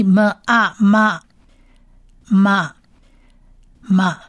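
"么啊" slowly joined into "嘛", then "嘛" repeated; teacher blending sounds into "ma"; blending drill. Shown as a demonstration. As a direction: show how the two sounds merge. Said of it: "所以".

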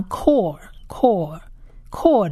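slow, repeated "core" with k, O and final L sound; demonstrated Hebrew word. Shown as a demonstration. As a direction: sound out "core" slowly as k plus O, closing on L. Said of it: "所以这个里是发core".

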